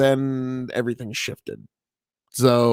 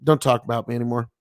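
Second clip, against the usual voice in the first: a touch of gentle restraint; gentle route; 4 semitones lower, faster than usual. Retold or imitated. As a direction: imitate a calm, gentle brush-off. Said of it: "he went the gentle route".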